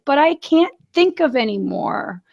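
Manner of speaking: lightly put-on tearful kid voice; imitated tearful child. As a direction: imitate a kid pleading through tears. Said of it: "tears streaming down his face".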